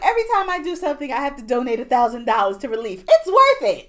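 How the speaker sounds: rattled off fast, squeaking high at the end; a breezy rich-lady quote, laughing into the last words; fast mock quote. Friend retelling the assistant's line, fast then high and laughing. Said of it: "And she was like".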